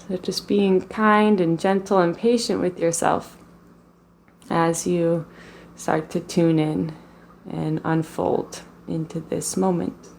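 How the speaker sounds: calm, even meditation voice with long pauses; guided meditation. Real, not acted. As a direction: guide them gently into the body, leaving space between phrases.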